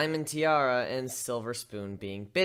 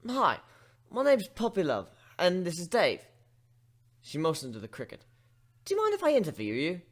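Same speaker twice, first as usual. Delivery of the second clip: higher, hesitant pony voice; shy pony; 4 semitones higher than usual. Acted. Young journalist waking the griffin, shy and hesitant. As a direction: ask timidly like a young reporter.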